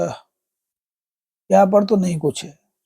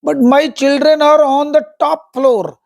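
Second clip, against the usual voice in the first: mock crying cry; 7 semitones higher, much slower than usual. A narrator's reading. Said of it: "cried Pinky".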